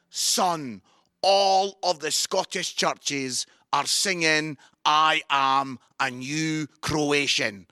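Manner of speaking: drawn out and slow like a minister dad; lightly voiced dad. Son phones his minister dad, a hint of a slow fatherly voice.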